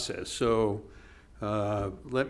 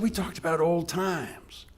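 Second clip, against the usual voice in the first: hushed recollection; 5 semitones higher than usual. Retold or imitated. Charlie tells Walter about his dying friend, in a slow whisper. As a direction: breathe it as a tender memory.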